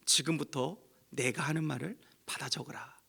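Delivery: hushed, secret command; God whispering a command to the prophet. Acted. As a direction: breathe it like a divine secret. God's words whispered.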